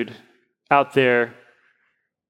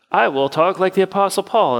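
higher, stilted mock-pious voice; super-spiritual poser; 5 semitones higher than usual. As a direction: imitate an inauthentic holy poser, pitched up. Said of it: "completely inauthentic and weird".

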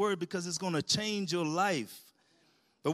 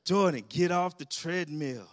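louder stern dad warning; firmer repeat; 5 dB louder than usual. Retold or imitated. Dad telling son off the treadmill, louder and firmer. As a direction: warn him a second time. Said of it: "I hear the treadmill going again".

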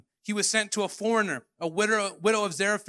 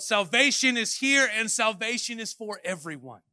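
proclaiming; 3 semitones higher, 3 dB louder than usual. Acted. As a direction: announce it like the greatest news. Preacher proclaiming climax.

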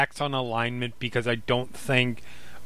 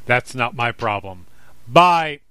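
booming giant voice; 4 dB louder than usual. Acted. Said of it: "and now it's this giant booming voice".

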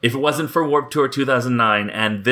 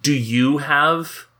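slow, sing-song teacher voice; kindergarten teacher voice; 3 semitones higher than usual. Real, not acted. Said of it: "Why did I say that like a kindergarten teacher".

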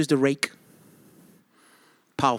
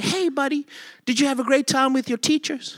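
cheery dad voice; 10 semitones higher than usual. Retold or imitated. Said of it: "Then I interject too and I say".

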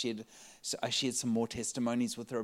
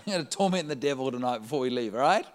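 louder, fast "torment the devil" rallying the crowd; hyped rally cry; 5 dB louder, faster than usual. Shown as a demonstration. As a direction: pump the room up, fast and loud. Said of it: "said twice, second time revved up".

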